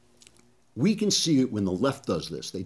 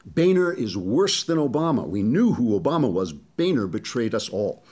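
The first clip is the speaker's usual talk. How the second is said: mock outrage; 3 dB louder than usual. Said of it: "show you the tone, the tone of voice".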